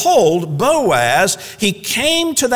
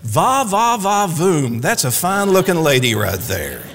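smitten admirer. Pretend. Boaz spotting Ruth in the field, mock-smitten admirer. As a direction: ham up a man struck by a beauty. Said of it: "the rendering would put it this way".

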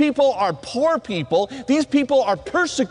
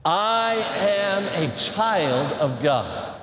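slow, measured words for repeating; leading a recitation; 3 semitones lower, much slower than usual. Shown as a demonstration. Preacher leading chapel in a declaration, slow recitation. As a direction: stretch each word so a crowd can join. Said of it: "Say that with me".

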